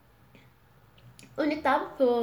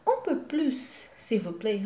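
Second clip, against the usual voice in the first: polite customer. Pretend. Customer at a bakery asking for more, politely. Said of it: "você tá numa padaria".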